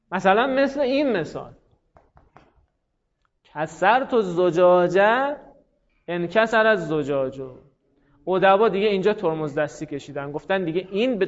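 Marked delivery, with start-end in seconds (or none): 3.4-7.4 slow Arabic example. Shown as a demonstration. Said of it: "teacher reads Arabic example".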